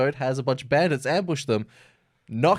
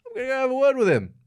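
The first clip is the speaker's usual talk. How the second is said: mock beast threat; 13 semitones higher, faster than usual. Beast threatens in retold story.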